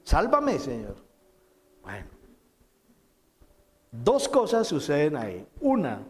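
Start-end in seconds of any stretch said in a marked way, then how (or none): 0.0-0.9 desperate plea. Acted. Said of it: "Pedro dijo".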